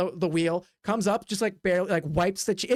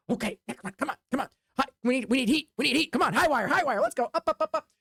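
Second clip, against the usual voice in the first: ringmaster hype; 4 semitones higher, faster than usual. Acted. Ringmaster hyping the crowd.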